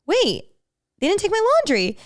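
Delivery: high-pitched disbelief, acted out; retold dismay. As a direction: replay the stunned discovery. Acts out discovering laundry left behind.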